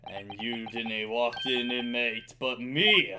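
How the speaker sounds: lightly voiced gruff prison governor, loud; Armstrong voice. Governor scorning the visiting lawyer, loud gruff voice. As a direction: boom out a scornful jailer. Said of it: "my best Armstrong voice for him".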